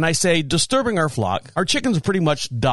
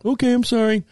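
a hint of a scolded kid, higher; apologetic child; 6 semitones higher than usual. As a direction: lightly mimic a boy's sheepish apology. Voices the kid apologizing again.

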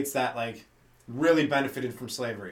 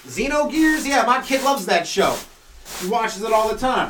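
higher-pitched, cheerfully clueless parent; clueless racist parent; 6 semitones higher, 4 dB louder than usual. Acted. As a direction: play a racist who has misunderstood the word. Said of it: "seventy percent of racist people".

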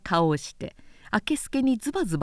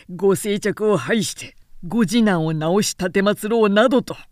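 louder, fast sneering rebuke; cold angry counter; 2 semitones lower, 3 dB louder than usual. Acted. Harada throwing the charges back at Namie, loud and biting. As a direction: cut him down with sarcasm.

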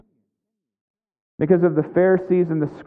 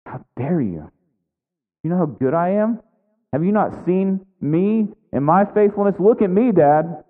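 indignant son; 3 semitones higher than usual. Retold or imitated. Older brother confronting his father, mounting indignant protest.

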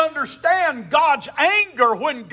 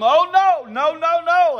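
high, loud cry of no; forceful denial; 6 semitones higher, 4 dB louder than usual. Real, not acted. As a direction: throw the no out like a thunderclap from the pulpit. Preacher rejecting idea forcefully.

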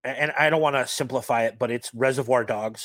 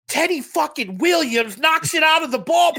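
put-on loud, high Boston accent shout; thick Boston accent, yelled; 6 dB louder than usual. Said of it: "this thick Boston accent".

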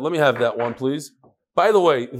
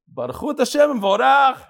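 mock cantor call; 8 semitones higher than usual. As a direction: belt it out like an eager worshipper leading the response. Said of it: "and he goes".

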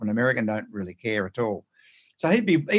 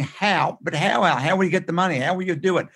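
higher-pitched mimicking of doubters; pestering questions; 5 semitones higher than usual. Imitating people who keep asking about the money, mock pestering.

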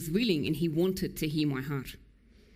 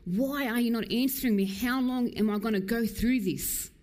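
mildly higher anguished pleading; desperate cry; 4 semitones higher than usual. Retold or imitated. Preacher voicing a desperate heart's cry, mild anguish. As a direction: ask God why, a hint of despair. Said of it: "a desperate heart's cry going".

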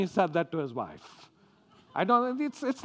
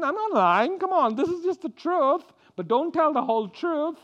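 higher, wheedling excuse; Abraham excusing himself; 8 semitones higher than usual. Retold or imitated. Abraham coaxing his wife to lie, a higher wheedling excuse. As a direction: talk her round, a bit sly. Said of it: "He said".

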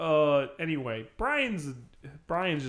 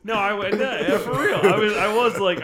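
higher, louder, laughing through it; laughing protest; 6 semitones higher, 8 dB louder than usual. Real, not acted. Defending himself to his co-host, laughing. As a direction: laugh off the teasing.

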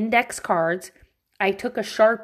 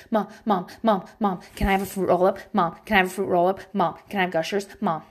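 lightly imitated nagging child, rapid and repetitive; pestering kid; faster than usual. Kid begging mom for candy, pestering imitation. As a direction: rattle it off like a mildly mocked nagging kid.

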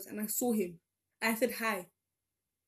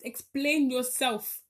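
slow, drawn-out, louder challenge; slow indignant challenge; mock demand; 3 semitones higher, 5 dB louder, much slower than usual. Real, not acted. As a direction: call the dictionary to account.

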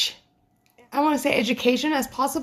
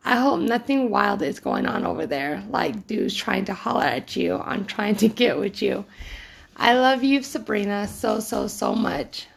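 reading a love letter; 3 semitones lower than usual. Shown as a demonstration. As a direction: read it out like a tender note. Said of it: "First letter".

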